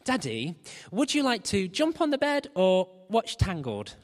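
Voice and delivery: lightly voiced little girl, sing-song ask; a hint of a three-year-old bargaining; toddler impression. Daughter bargaining with Daddy on the stairs, in a light toddler voice. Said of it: "that's my impression".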